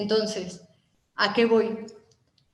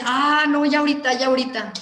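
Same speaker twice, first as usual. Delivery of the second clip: brushing off the caller; 2 semitones higher, 4 dB louder than usual. Retold or imitated. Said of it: "a la octava vez te dice".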